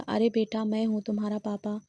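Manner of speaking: ordinary delivery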